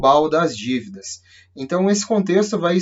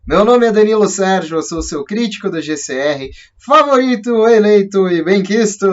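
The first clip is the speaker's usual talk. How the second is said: excited greeting; 4 semitones higher, 5 dB louder than usual. Real, not acted. Channel intro greeting viewers.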